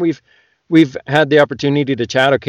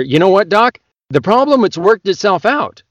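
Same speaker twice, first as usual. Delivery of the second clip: patient voice; 7 semitones higher than usual. Acted. Joke, patient voiced by teller.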